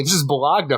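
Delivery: Bologna said as "buh-LOG-nuh"; renamed bologna. Retold or imitated. Mother passing bologna off as fancy, saying Bologna as "buh-LOG-nuh". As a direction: sound the g in Bologna. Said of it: "when my mother says".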